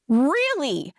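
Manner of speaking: slow down and drive each phrase home; indignant. Retold or imitated. Churchgoer confronting bishop over tights rule, indignant.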